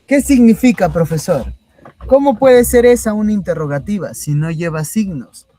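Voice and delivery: high, loud mock-student challenge; puzzled student. Teacher voicing a student who challenges the professor, high and loud puzzlement.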